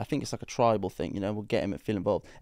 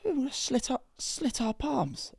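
high, slow mock ritual voice; mock ominous; 12 semitones higher, 4 dB quieter than usual. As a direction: drag out the palms line slowly.

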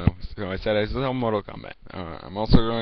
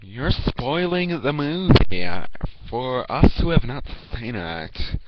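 whiny viewer; 4 semitones higher, 5 dB louder, slower than usual. Retold or imitated. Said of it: "being like".

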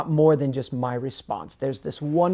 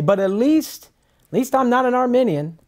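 smug boast; 9 semitones higher, 4 dB louder than usual. Retold or imitated. Retelling smug lost man's boast.

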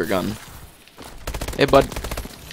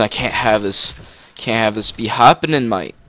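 mock British accent. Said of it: "Why do I keep doing frickin' accents?".

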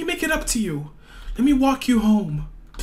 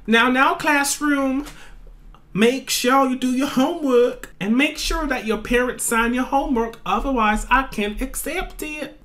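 teacher voice. Acted. Teacher addresses class.

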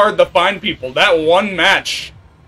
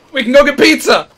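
yelling; 8 semitones higher, 5 dB louder than usual. Real, not acted. Pleading with attacker.

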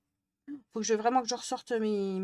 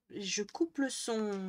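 slow and deliberate; drawn out slowly, word by word; 5 dB quieter, much slower than usual. Real, not acted. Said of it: "Faut que je coupe le son".

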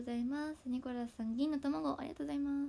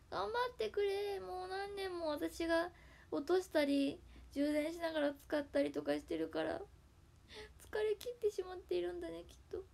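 pleading to the iPad; 5 semitones higher than usual. Real, not acted. Pleading to her worn iPad. (疲れたiPadに高い声でゆっくり励ます)

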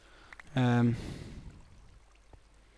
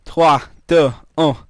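ride countdown; 6 dB louder, slower than usual. Retold or imitated. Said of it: "the roller coaster that says".

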